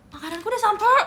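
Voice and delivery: high, loud excited squeal. Real, not acted. Streamer tells chat her food arrived, excited. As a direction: burst out happily, food is here.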